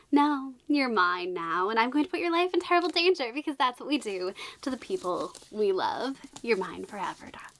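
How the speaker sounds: mock possessive declaration; hint at a dramatic romance villain-lover; lightly voiced mafia boss. Mafia boss claiming the runaway girl, lightly acted. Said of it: "some mafia boss, but he's like".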